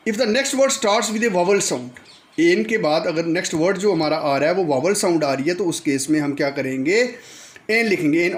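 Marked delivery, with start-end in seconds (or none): 0.1-2.0 slow dictation. Shown as a demonstration. Teacher reading rule slowly.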